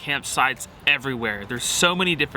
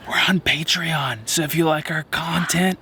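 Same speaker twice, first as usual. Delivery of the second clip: raspy monster lady voice. Pretend. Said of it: "You sound like the lady in Monsters, Inc".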